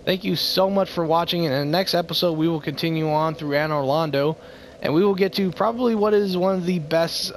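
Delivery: bright, lively sign-off to viewers; upbeat outro. Acted. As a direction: wrap up the episode with energy.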